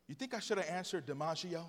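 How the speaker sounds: sad dog. Acted. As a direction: ask it softly, like a downcast dog. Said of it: "looks up to the man very sadly".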